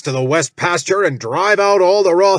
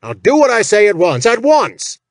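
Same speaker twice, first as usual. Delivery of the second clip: loud, higher, fast furious bellow; 5 semitones higher, 5 dB louder than usual. Acted. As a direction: roar it like an outraged boss. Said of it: "Jack bellowed".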